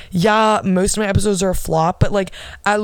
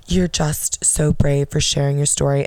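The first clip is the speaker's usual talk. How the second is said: imitating Emrata; 4 semitones lower than usual. Host flattering her podcast guest, lower mock gush. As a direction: lower mock-gushing praise. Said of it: "And M's like".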